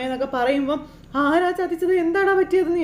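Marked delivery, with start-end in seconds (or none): 1.2-2.8 higher, urgent imitated mother; alarmed demand. Retelling a mother pressing her cheated son, high alarmed demand.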